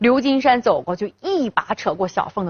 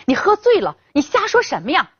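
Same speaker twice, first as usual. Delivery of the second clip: anxious pleading; 5 semitones higher than usual. Acted. Mother pulls drunk husband away.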